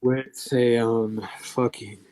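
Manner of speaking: breathless, gasping between words; out of breath. Real, not acted. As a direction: talk while short of breath. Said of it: "I'm running out of breath here".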